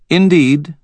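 high, imperious queen voice; cold queen Mab. A narrator's reading. Queen to the wizard, haughty and high. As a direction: speak down to them as a queen.

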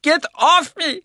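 put-on high, loud raspy old man; raspy shout. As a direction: shout through the pain, rasping. Pinned old man struggles.

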